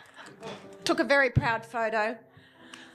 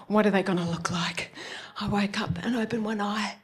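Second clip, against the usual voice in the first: nervous whisper; 2 semitones lower than usual. Retold or imitated. Waking after surgery, nervous.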